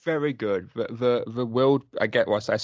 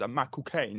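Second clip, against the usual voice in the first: stock impression, lightly voiced; Michael Caine; 4 dB quieter than usual. Co-host shows how everyone imitates the actor, lightly impersonated. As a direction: mimic the impression everyone does. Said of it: "That's what everyone does".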